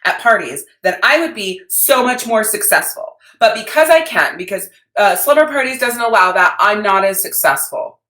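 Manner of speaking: hammed-up imitation of people blaming the rules; mock complainer. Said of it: "people who would say".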